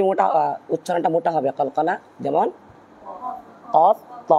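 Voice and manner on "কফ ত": কফ and ত said thick and full; heavy qalqalah letters. Shown as a demonstration. Teacher models the two elevated letters, কফ and ত heavy. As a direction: raise the sound of কফ, ত into heaviness. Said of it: "এই দুইটা মোটা উপর দিকে যাবে".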